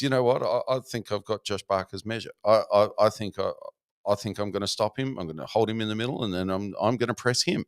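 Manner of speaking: lightly voiced Kazakh accent; a hint of a Kazakh fighter's accent. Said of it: "that's a very, very good Kazakh accent".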